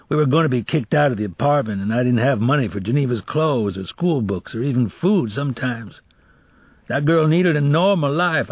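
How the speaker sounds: earnest father's justification; ex-convict father pleading his case. Acted. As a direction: explain urgently why the girl needed better.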